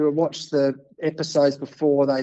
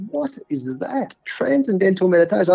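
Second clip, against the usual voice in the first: baffled question; 4 semitones higher than usual. Retold or imitated. Baffled by teammate's advice.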